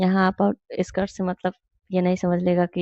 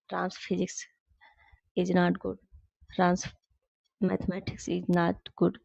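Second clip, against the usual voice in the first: slow, word-by-word reading of the example; slow correct example; 7 dB quieter, much slower than usual. Shown as a demonstration. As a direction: read the example slowly, like dictation. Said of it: "लेकिन जब यहाँ possessive आ जाएगा".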